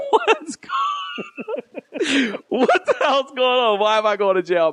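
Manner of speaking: very high-pitched mock scream; imitated freak-out. Cousin being cuffed in court, imitated screaming freak-out. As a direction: shriek in panic, easing down, as the arrested man. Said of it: "he's freaking out".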